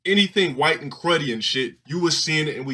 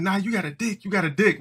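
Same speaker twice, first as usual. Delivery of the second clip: high mock kid taunt; a higher sing-song roast; 7 semitones higher than usual. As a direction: boys keep roasting the tomboy. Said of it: "We was like".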